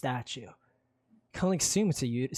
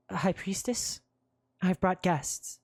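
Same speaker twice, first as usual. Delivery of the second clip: London announcing; 5 semitones higher, slower than usual. Acted. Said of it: "She clears her throat".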